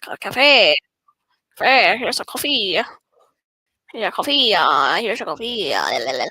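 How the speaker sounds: a hint of a silly character, mostly loud; silly put-on voice. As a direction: play around with a lightly put-on voice. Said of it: "I'm talking like this".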